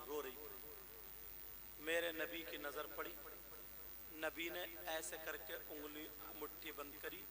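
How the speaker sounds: soft sermon narration; hushed storytelling. A narrator's reading. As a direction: draw the listeners in quietly.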